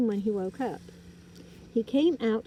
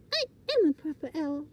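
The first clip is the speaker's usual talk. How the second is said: cross; 6 semitones higher, faster than usual. Acted. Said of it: "getting very cross".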